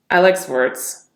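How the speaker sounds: off-putting tone of disgust. Shown as a demonstration. Coach demonstrating off-putting tonality, disgusted. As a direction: say it as if the idea repels you.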